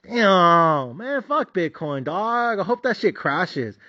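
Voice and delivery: disbelieving and annoyed; fed-up shock at the price; frustrated disbelief. Retold or imitated. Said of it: "I'm like".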